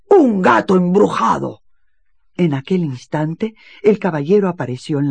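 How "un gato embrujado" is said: loud, high alarmed cry; exclaiming. Acted. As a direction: sound the alarm. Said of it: "exclamó el varón". (grito alarmado)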